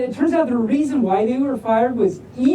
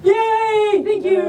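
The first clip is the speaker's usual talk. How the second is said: excited cheer; 11 semitones higher, slower than usual. Real, not acted. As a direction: cheer them on, pitched way up. Cheering returning listeners.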